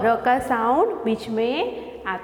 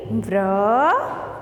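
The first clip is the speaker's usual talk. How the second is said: slow teaching; much slower than usual. Shown as a demonstration. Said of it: "Tell me".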